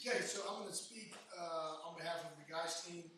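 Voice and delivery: raspy, worn-out hoarse voice. Real, not acted. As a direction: speak through a hoarse throat. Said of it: "excuse my voice".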